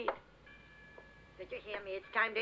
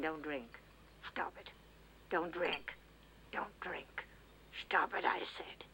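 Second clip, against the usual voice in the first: whispered scolding; 7 semitones lower, 8 dB quieter than usual. Acted. Mother scolding son at table.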